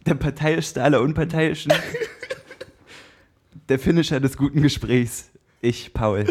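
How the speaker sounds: slow, drawn-out fight introduction; boxing ring announcer. Acted. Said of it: "du hast dich übertroffen".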